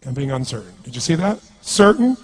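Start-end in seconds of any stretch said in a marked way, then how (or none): 0.1-0.7 low, much softer, dropping away; uncertain. Shown as a demonstration. Coach showing the drop into being uncertain, uncertain. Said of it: "the difference between being certain". 1.6-2.2 higher, firm and sure; certain. Shown as a demonstration. Coach contrasting the two states for the crowd, certain. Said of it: "the difference between being certain".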